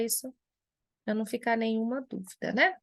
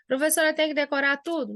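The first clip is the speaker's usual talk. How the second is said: lightly voiced pupil, higher and quicker; imagined student's question; 4 semitones higher, faster than usual. Student asking the teacher about memorizing everything, lightly imitated, higher and fast.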